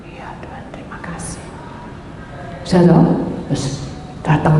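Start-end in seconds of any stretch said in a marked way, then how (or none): 0.1-1.4 breathless whisper to God; whispered thanks. Retold or imitated. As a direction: whisper it like a private prayer. Grateful whispered prayer to God. (berbisik penuh syukur)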